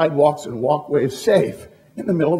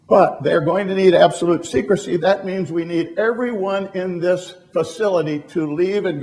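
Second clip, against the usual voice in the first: louder, measured announcer call to a stadium; PA announcement; 4 dB louder than usual. Retold or imitated. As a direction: address the whole dome over the speakers. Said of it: "this goes over the whole P A system".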